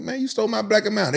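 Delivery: mock accusation. Accusing roommates.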